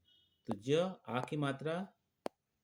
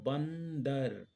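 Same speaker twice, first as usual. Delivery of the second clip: slow demo word; much slower than usual. Shown as a demonstration. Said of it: "ब के बाद आ रहा हमारा न".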